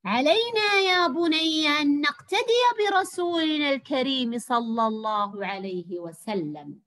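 slow, loud father's advice, opening high; voiced father. Shown as a demonstration. Teacher reading the father's line to pupils, slow and loud. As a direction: read the father gently instructing his son. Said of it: "أن ألون صوتي وفق ما يقتضي المعنى".

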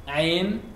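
tighten the throat and say Ain; throaty Ain. Shown as a demonstration. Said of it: "we write Ain".

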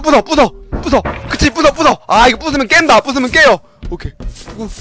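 usual speaking voice

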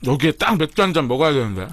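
speaking between bites of chicken; tags: talking while chewing. Real, not acted. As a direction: mouth partly full of food. Seen 3: Just bit chicken at -1.0; mouth working, holding chicken while speaking.

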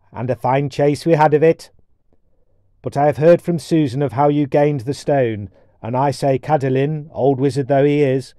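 formal, measured storybook dwarf speech; dwarf elder. Acted. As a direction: begin hearty, settle into solemn offer.

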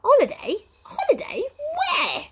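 very high, sharp squawked questions. A narrator's reading. Wizard interrogates his sister about holidays, sharp. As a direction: fire each word out in outrage. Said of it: "said Flabbergasted sharply".

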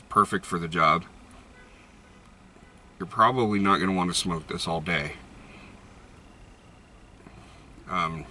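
talking around pipe stem; pipe in mouth. Real, not acted. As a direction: lips clamped on pipe. Seen 4: Pipe stem held between lips throughout; out by +8.3.

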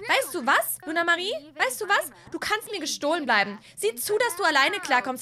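high, loud telling her off; angry dismissal. Acted. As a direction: cut her off for good. Sisters' acted quarrel.

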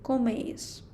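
«комеїс» with the accent on the «е» of the ending; teacher showing where «комеїс» takes its stress. Shown as a demonstration. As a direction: lean on «е» in «комеїс». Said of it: "наголос на літеру «е»".

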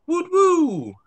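high, loud cheer of joy. Acted. Reader cheering for the child who asked a friend to play, joyful cheer. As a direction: cheer like the friend just won.

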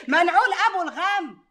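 high laugh, then loud cheerful curse. Acted. Aunt laughing and cursing away the gloom. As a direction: laugh it off loudly.

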